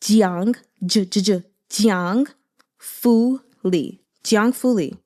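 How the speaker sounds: Jiang Fu Li said slowly, syllable by syllable; Mandarin name. Shown as a demonstration. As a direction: sound out Jiang Fu Li clearly. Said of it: "how to pronounce it".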